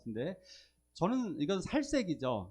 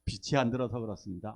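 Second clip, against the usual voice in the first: shopkeeper's reply; 6 semitones lower than usual. Retold or imitated. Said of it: "그 파시는 분들이 그 얘기를 하더라고요".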